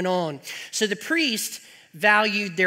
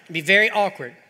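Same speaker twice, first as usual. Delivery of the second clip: laughing; 4 dB louder, faster than usual. Real, not acted. Laughs at his own joke.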